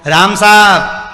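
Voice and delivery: slow greeting. Shown as a demonstration. Walker greeting someone on the morning walk, slow and friendly. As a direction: stretch राम साहब out as a friendly hello. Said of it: "जरा बोल के देखना".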